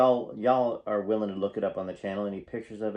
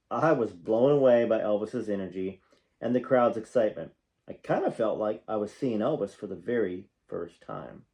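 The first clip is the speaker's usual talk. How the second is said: reading a memoir aloud, projected and animated; memoir narration; 4 dB louder than usual. A narrator's reading. Fan reading stories about a singer to viewers, animated narration. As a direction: read it out like an audiobook storyteller.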